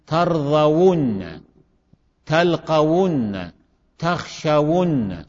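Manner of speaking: ترضون، تلقون، تخشون each very slow, endings held; drawn-out demonstration. Shown as a demonstration. Teacher listing model verbs for class, drawn-out demonstration. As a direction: linger on the doubled nun in ترضون، تلقون، تخشون.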